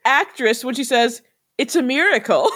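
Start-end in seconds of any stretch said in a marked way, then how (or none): 1.6-2.5 put-on innocent announcement with a wicked undertone; mock diabolical. Great actress witch fooling the others, mildly diabolical. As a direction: lightly imitate a scheming witch. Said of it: "the most, like, diabolical way".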